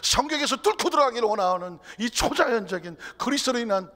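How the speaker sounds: loud, high-pitched sermon delivery; full-force preaching. Real, not acted. Preacher urging the congregation into supernatural faith, full-force preaching. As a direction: proclaim it at the top of your voice.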